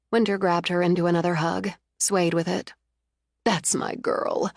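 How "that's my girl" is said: slow, whispered tender praise. Acted. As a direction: hold her close and breathe it proudly. Mother hugging her daughter.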